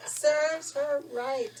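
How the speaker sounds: gleeful, drawn-out justice served; chuckling, savouring the wicked queen's end; laughing satisfaction. Real, not acted. Relishing the villain's death.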